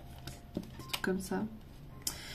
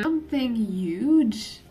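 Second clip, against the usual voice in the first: drawn-out English; 3 semitones higher, 4 dB louder, much slower than usual. Pretend. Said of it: "je parle comme ça à la caméra".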